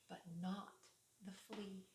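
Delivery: hushed. A narrator's reading. Storybook suspense drop.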